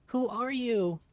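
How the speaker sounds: high, loud snarl. Acted. Child snarling at the approaching stranger. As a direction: snap it at the stranger. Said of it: "I snarl at him".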